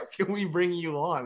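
loud, high, eager acted invitation; imitated excited pleading. Guitarist invites the trainer on tour, imitated excited plea. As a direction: talk someone into joining, thrilled and urgent.

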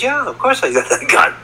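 high-pitched mock protest; retold insistence. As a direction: insist to a doubting mother, voice pitched well up. Retells insisting to doubting mother.

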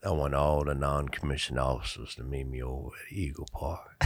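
low, soft, breathy near-whisper; Johnny Riley impression. Sergeant Major summoning the NCOs, low near-whisper. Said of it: "And he says".

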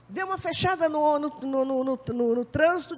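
ordinary talk, nothing marked

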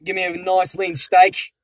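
lightly put-on Australian order; hesitant mock Aussie diner; Australian accent. Pretend customer ordering steak, light Australian accent. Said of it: "talk in an Australian accent".

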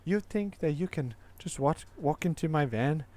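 put-on botched Australian accent, nowhere near; attempted Australian leprechaun. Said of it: "best Australian leprechaun accent".

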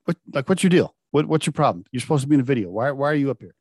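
mildly exasperated retold questioning; irritated. Manager confronting a kid who left his section, irritated. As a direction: stumble into an annoyed challenge, lightly acted. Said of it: "now I'm getting irritated".

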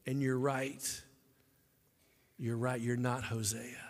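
gentle agreement. Real, not acted.

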